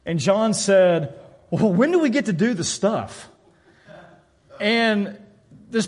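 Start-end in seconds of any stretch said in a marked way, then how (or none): 1.5-3.3 wide-eyed newcomer asking; innocent question. Retold or imitated. New Christian eagerly asks his pastor, innocent. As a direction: ask like an eager new believer. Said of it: "real innocent".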